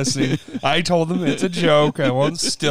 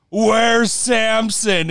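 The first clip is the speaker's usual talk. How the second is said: alarmed question; 5 semitones higher, much slower than usual. Retold or imitated. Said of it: "And I go".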